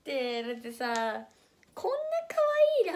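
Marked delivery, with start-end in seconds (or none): 1.7-2.9 squealing cute voice. Real, not acted. Gushing over imagined kitten.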